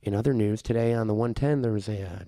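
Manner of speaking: whispery public radio reporter; NPR reporter. Pretend. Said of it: "little whispery".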